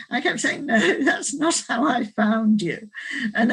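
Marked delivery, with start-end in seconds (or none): 0.6-2.9 laughing. Retold or imitated. Laughing while quoting herself.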